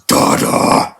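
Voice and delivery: a hint of a demonic baby, whispered; devilish voice. Reviewer imitating a devilish ogre Donkey, mock demonic whisper. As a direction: hiss it like a mock demon child. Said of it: "in a devilish voice".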